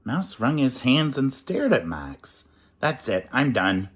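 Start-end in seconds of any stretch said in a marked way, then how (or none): 2.8-3.9 mild shout. Acted. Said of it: "Max shouted".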